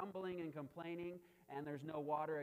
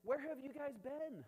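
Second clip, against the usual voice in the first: high-pitched disbelief; incredulous Moses; 8 semitones higher than usual. Retold or imitated. Moses to the doubting people, incredulous. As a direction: ask it pitched way up, astonished at them. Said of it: "Moses is like".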